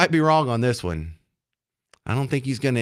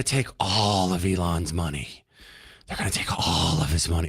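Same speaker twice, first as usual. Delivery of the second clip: a hint of a low, sinister demon mocking the caller; 7 semitones lower, 4 dB quieter than usual. Host mocking the caller's gloating, in a lightly voiced demon tone. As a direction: lightly growl it like a cartoon villain. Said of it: "Hey, do a demon voice".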